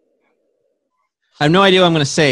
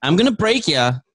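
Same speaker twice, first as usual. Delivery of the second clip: wrestling promo; 2 semitones higher than usual. Pretend. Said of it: "Go for it".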